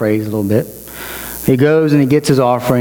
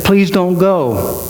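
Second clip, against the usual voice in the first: mild retold plea, drawn out and higher; slow, raised-pitch entreaty, acting out Gideon; pleading; 5 semitones higher, much slower than usual. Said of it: "And he's like this".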